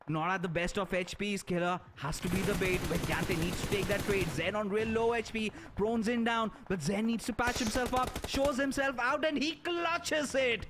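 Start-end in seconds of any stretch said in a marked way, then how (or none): 4.4-10.6 esports caster. Real, not acted. Clutch moment, live play-by-play.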